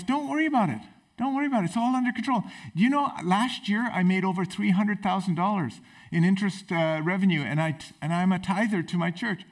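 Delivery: lightly voiced smug rich man; calm rich man. Rich man calmly reassuring the panicking castaway, lightly voiced. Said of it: "And the rich man goes".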